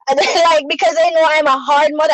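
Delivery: real tears breaking through; crying. Real, not acted. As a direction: voice caught in a sob. Crying while recalling.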